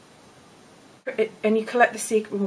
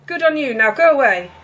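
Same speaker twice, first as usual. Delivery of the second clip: grumpy dismissal; 3 semitones higher, 6 dB louder than usual. Acted. Cappy dismisses Winnie grumpily.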